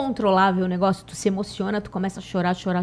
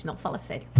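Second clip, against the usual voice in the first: disbelieving mutter; 6 semitones lower, 11 dB quieter than usual. Retold or imitated. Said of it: "Eu falava assim".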